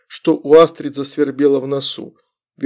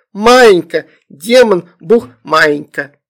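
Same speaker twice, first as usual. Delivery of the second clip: put-on high, loud baby-talk words; toddler; 4 semitones higher, 6 dB louder, slower than usual. A narrator's reading. Toddler explains demon to himself, childish and loud. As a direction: explain word by word like a tot.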